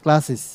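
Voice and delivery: "ক্লাসেস" with an added "sis" syllable; es ending as "sis". Shown as a demonstration. Teacher giving the plural of class, "ক্লাসেস" ending in "sis". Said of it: "তখন উচ্চারণটা কি হয় জানেন?".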